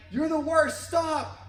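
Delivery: put-on high, loud kid yelling at the echo; frustrated shout. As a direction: hurl it across the valley in a huff. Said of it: "Getting frustrated".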